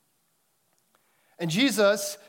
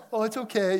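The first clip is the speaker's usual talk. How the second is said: higher-pitched imitated motherly reassurance; consoling mother; 5 semitones higher than usual. Mother comforting her heartbroken four-year-old, imitated soothing. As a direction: soothe a hurt child, pitched up. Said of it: "She has to keep a straight face".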